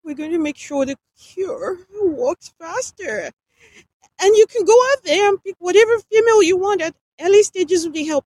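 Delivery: high, loud, breathless desperate pleas; gasping between desperate words. A narrator's reading. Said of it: "She spoke in an intermittently breathless tone".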